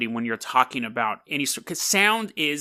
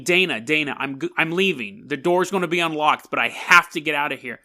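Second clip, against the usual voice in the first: calling out. Retold or imitated. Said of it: "me yelling Dana a couple of times".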